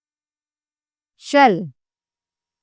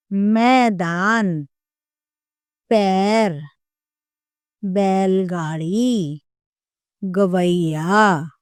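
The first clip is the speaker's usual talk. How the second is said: slow clear teaching; slower than usual. Shown as a demonstration. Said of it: "इसके शब्द होते हैं".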